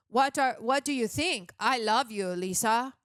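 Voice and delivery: mock Polish accent, little emotion; Polish accent impression. Reviewer imitating the film's lead, mock Polish accent without emotion. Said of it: "with a Polish accent".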